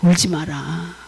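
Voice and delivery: a hint of a fatherly God; God speaking. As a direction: console gently as God, pitch settling low. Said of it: "하나님이 어느 날 새벽에 제게 그렇게 말씀을 하시더라고요".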